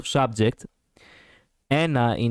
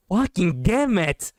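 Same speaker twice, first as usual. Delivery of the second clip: exasperated curse; 6 semitones higher, slower than usual. Real, not acted. Frustrated at favorite being hit first.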